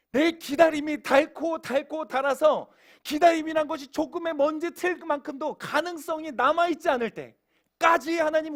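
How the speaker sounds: 높고 힘 있게 밀어붙이는 설교조; 단어마다 힘주어 목소리 높여 설교. Real, not acted. Preaches at full force. (고조된 설교 외침)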